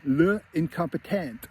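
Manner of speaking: slow, lightly mocking French accent; snooty sister putting on a bit of French. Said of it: "in France, they call you".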